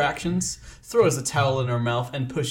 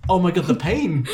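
mock anguish; 4 semitones higher than usual.

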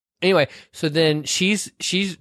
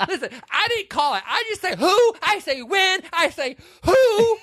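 retelling the movie's key line in a shrill falsetto caricature; hammed-up Vivian. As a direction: squeal the heroine's big line, stretching the end.

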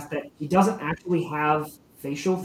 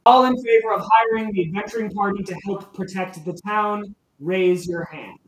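louder, higher formal call; calling a vote; 4 semitones higher, 5 dB louder than usual. Acted. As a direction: address the whole hall for a vote. Vasha calls vote.

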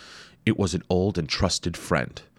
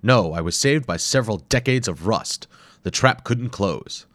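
lightly voiced relieved explorer; 4 semitones higher, 4 dB louder than usual. Hayabusa relieved.

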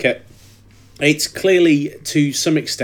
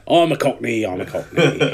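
put-on Cockney accent.

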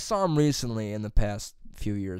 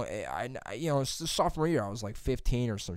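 normal talking voice

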